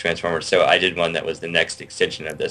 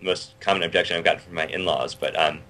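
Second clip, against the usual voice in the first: late night pitchman voice. Pretend. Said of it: "That was my late night pitchman voice".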